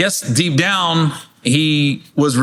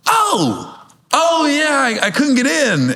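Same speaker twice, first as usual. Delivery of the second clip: mocking promoter; 9 semitones higher, slower than usual. The promoter's sheepish answer.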